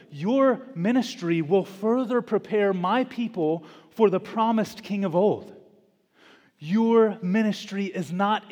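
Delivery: preacher voicing God with rising conviction; emphatic divine assurance. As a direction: press each point home to a doubting prophet. Preacher voices the Lord reassuring Isaiah.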